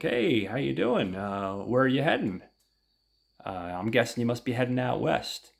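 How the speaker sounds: a touch of a sleazy stranger's greeting; lightly voiced greasy driver. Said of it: "he's kinda greasy and sweaty".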